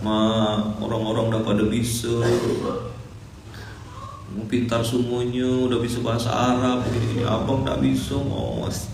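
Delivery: put-on a homesick boy begging mum on the phone; mildly dramatic plea. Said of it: "agak dramatis".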